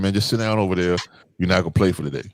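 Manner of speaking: put-on even, calm coach telling a kid to sit; calm instruction. Shown as a demonstration. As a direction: tell him to sit without heat. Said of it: "in a calm voice".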